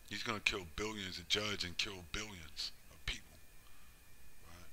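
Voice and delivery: hushed, breathless whisper of doom. Real, not acted. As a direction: whisper it like a dark secret. Ominous aside about mass killing.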